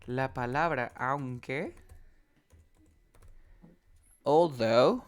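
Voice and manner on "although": although with a voiced TH. Shown as a demonstration. Teacher models word for student, although with TH. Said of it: "Tiene las, la".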